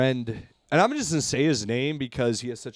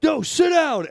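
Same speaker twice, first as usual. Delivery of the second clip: high mock defiant voice; imitated kid; 13 semitones higher, 5 dB louder, slower than usual. Son defying his mom, high mock voice. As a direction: play the bratty son. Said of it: "And he was like".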